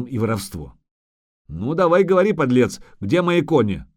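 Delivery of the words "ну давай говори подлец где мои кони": irate, raised interrogation; pressing, angry questioning; angry demand. Acted. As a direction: demand an answer from the scoundrel. Acted interrogation of the thief.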